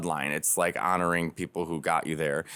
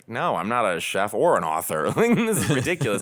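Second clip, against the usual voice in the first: protesting; 4 dB louder than usual. Retold or imitated. Acting out refusal to agent.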